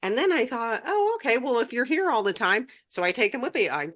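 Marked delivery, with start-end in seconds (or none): 0.9-2.7 sudden realization. Retold or imitated. Realizing the guides are always present.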